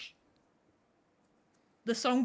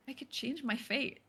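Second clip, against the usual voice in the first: put-on Merida accent; 6 dB quieter than usual. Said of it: "Say, "If you could change your fate".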